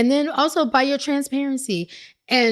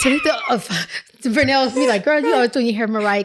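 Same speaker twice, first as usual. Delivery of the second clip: newscaster delivery, formal and announcing; anchor voice; 2 semitones higher than usual. Pretend. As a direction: read it like a TV news anchor. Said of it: "let me put my anchor voice on".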